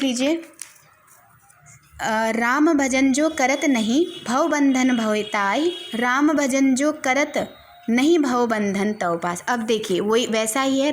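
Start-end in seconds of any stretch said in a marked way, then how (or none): 2.3-9.4 slow, drawn-out recital of a Hindi couplet; slow poem recitation. Acted. Teacher reciting a couplet to the class, slow and measured. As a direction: recite each half-line slowly with a lingering rise.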